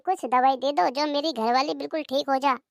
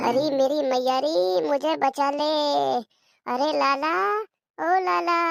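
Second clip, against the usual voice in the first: sick moaning plea; slower than usual. Acted. Sick wife moans in pain.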